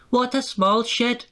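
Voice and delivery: high, disdainful engine grumble; grumbling. A narrator's reading. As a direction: sniff at the shed like a proud engine. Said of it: "grumbled Sir Handel".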